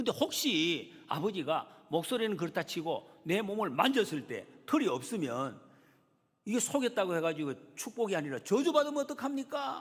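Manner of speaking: scared, fearful tone. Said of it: "겁이 났다".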